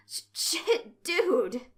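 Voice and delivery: loud, high startled stammer; high-pitched flustered outburst. A narrator's reading. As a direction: stammer it out, rattled. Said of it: "Kyle stammered".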